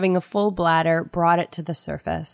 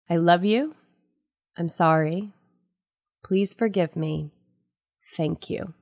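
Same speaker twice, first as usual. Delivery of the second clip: recited prayer. Shown as a demonstration. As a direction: recite it gently, pausing after each phrase. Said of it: "This is how I say it".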